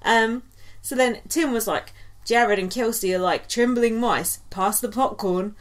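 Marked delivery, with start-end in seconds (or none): 2.2-5.5 weak Australian accent impression; lightly voiced Australian accent. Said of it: "My Australian accent's not that good".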